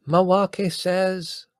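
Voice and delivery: put-on a slow, high Indian accent for the spirit guide. Medium channelling her spirit guide Mawake in a slow Indian accent. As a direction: stretch each word out in a put-on Indian accent. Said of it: "strong Indian accent".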